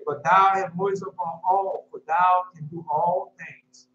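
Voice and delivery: slow, solemn verse reading; scripture recital. Acted. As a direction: recite the verse slowly, like from the pulpit.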